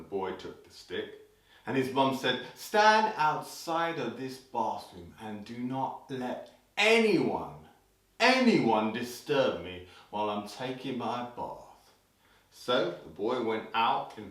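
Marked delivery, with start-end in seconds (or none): 2.5-11.9 emphatic instruction. Acted. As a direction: spell out the order, stretching "anyone". Mother gives the boy strict orders.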